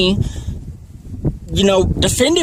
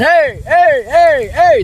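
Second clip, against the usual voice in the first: higher-pitched mock call of a yeller; imitated yelling; 6 semitones higher, 3 dB louder, much slower than usual. Man telling deputy how a stranger yelled at him, imitated yell. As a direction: mimic someone calling out, pitch up on each word. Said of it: "a guy over here that started yelling".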